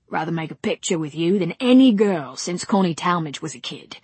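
eager film director with a laugh; pushy producer charm; brash director. Acted. Brady speaks.

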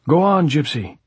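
high, loud call to the singer; cheering on. A narrator's reading. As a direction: egg the singer on loudly. Audience urges the singer on.

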